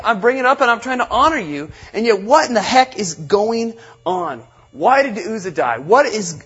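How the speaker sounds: angry David. Retold or imitated. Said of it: "imagine David being angry".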